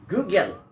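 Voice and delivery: put-on good girl run together like "Google"; assimilated good girl. Shown as a demonstration. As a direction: blend good girl into "googirl". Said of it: "not the Google".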